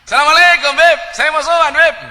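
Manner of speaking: loud, high Madurese greeting; Madurese guest. Retold or imitated. (salam keras bernada tinggi ala orang Madura)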